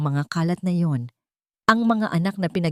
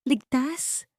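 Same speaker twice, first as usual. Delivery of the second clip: cold laugh; 9 semitones higher, 4 dB quieter than usual. A narrator's reading. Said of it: "isang malamig na tawa".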